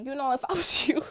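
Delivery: unvoiced breathy whisper with a laugh; hushed teasing whisper. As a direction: whisper it like the brother, half laughing. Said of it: "he'd probably be like".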